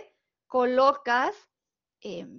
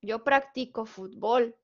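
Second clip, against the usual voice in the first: "practico" said prac-TI-co within the phrase; stress on second syllable. Shown as a demonstration. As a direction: example sentence with TI stressed in "practico". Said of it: "si yo se la pongo en la siguiente".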